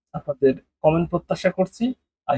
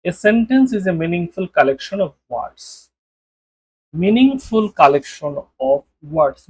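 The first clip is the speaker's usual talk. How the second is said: definition read out very slowly; very slow dictation; much slower than usual. Shown as a demonstration. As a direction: dictate it word by word. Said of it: "sentence মানে কি সেটা একটু দেখুন". (খুব ধীরে পড়ে শোনানো)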